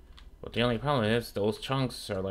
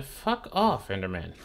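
angry dismissal. Real, not acted. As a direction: tell the monster off sharply, pitched up. Snapping at the Enderman.

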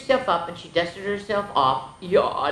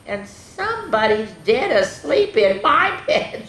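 put-on higher, half-hearted baby scream; mock scream; 5 semitones higher, 3 dB louder than usual. Baby finding someone in the bed, mock scream. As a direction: squeal it without full force. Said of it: "screamed Baby".

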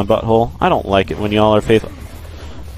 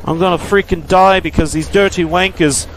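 higher, hammed-up British accent; mock British accent; 7 semitones higher, faster than usual. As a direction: play a jokey Brit cursing the enemies. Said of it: "That just sounded British".

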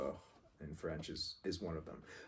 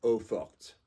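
eau forte with a light French accent, R in the throat; French pronunciation; 5 dB louder, much slower than usual. Shown as a demonstration. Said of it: "If it was French".

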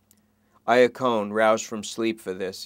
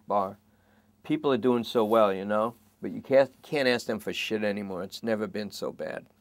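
complaining to the cop, a little raised; Lester, lightly voiced; 4 dB louder than usual. Suspect grumbling to the detective, lightly voiced.

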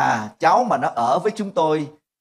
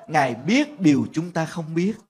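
ordinary talk

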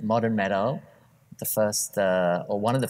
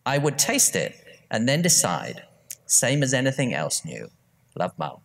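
mum's voice; 5 semitones higher than usual. Retold or imitated. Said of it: "read the full thing in my mum's, uh, voice".

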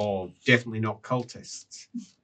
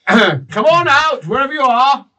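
taunting call; 13 semitones higher, 8 dB louder than usual. Acted. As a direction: coax them out like a mocking game of hide and seek. NPC calling into the dark.

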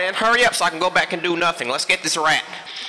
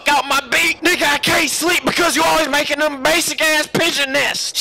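heated argument; 7 semitones higher than usual. Acted. Arguing loudly with partner.

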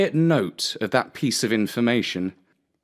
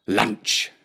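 sly fox to himself. Acted. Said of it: "he said to himself".

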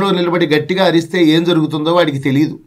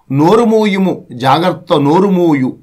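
poem recitation; slower than usual. Acted.

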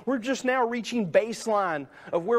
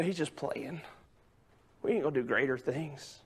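doubting disciples; 8 semitones lower, 8 dB quieter than usual. Acted. Disciples doubting Jesus's promise.

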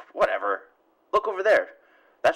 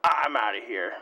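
startled shout; 2 semitones higher, slower than usual. Pretend. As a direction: yell it and run off. Dodging bullets and fleeing.

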